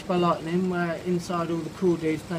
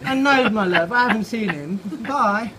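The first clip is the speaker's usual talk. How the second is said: snooty robin; 3 semitones higher, 6 dB louder than usual. Acted. Robin snubbing Cynthia about Norman, haughty and loud. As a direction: look down your nose at her, loud and lofty.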